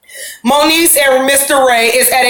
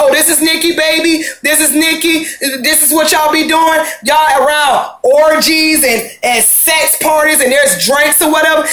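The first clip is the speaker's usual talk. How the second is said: mock angry boyfriend; 2 semitones higher than usual. Boyfriend confronting the girls at the party, mock angry shout. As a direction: play the jealous boyfriend scolding the girls.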